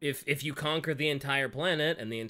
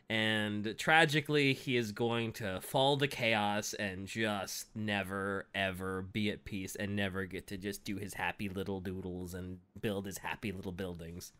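mock tragic; 4 semitones lower than usual. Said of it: "tragically sad".

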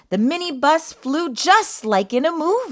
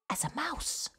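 whispered; 3 semitones higher, 15 dB quieter than usual. A narrator's reading. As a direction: whisper like a tiptoeing mouse. Quiet as a mouse.

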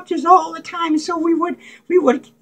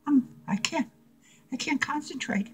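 fading confusion; 3 semitones lower, 10 dB quieter than usual. Acted. Drugs kicking in, fading.

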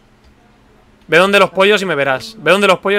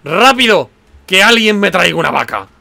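urgent call; 2 semitones higher, 5 dB louder than usual. Real, not acted. Urgently calls players for a cow.

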